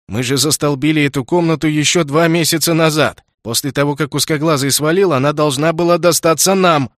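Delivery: angry protest. Acted. Angry brother argues with cop.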